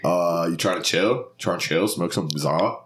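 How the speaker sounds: loose Delco accent sliding into surfer; chilled-out, beachy stab at Delco. Shown as a demonstration. Podcaster showing how Delco people talk, beachy Delco accent. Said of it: "This is how Delco people talk?".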